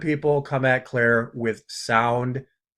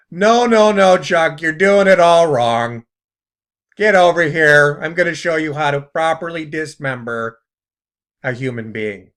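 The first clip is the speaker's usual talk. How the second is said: put-on Chicago accent; 3 semitones higher, 6 dB louder than usual. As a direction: play a scolding demon trainer in Chicago accent. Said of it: "that's my Chicago, uh, accent".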